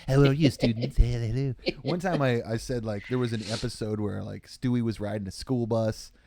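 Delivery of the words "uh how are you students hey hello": cartoon dad voice greeting the class; a light Family Guy cartoon voice. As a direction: greet students like a cartoon character. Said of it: "got pretty good at Family Guy".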